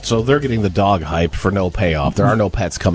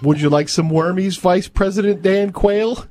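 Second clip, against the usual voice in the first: high, sing-song pet talk; quail voice; 11 semitones higher than usual. Retold or imitated. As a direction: coo at the bird sweetly. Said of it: "I talk to her in a weird quail voice".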